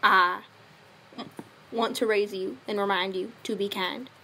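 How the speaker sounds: put-on light southern accent, a loving dad giving affirmations; a hint of a Southern cowboy father, sincere; lightly done Southern dad accent with a folksy touch; Scooter McMacintosh southern dad. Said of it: "come back with a southern accent".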